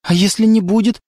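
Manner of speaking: a hint of hope, rising on «не»; hopeful. A narrator's reading. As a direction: ask it hopefully, lifting «не». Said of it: "в вопросе Леры прозвучала надежда". (с надеждой, подъём на «не»)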